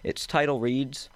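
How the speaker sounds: measured storytelling read aloud; story narration. A narrator's reading. Reads his story aloud.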